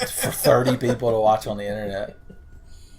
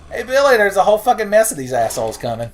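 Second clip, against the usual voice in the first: calling out; 9 semitones higher, 6 dB louder than usual. Real, not acted. Calling to game partner.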